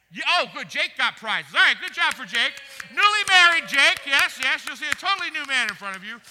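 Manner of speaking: loud, cheering up the room over the prizes; excited hype. Real, not acted. Preacher hyping the congregation over Jake's prizes, loud and excited. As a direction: pump the crowd up for Jake.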